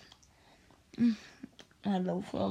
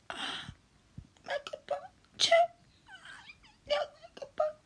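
whispering; slower than usual. Acted. Whispered during countdown.

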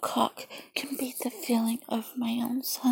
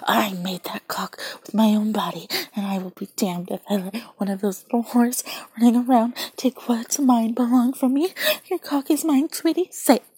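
louder, insistent and commanding; forceful possessive insistence; possessive demand; 5 dB louder than usual. Acted.

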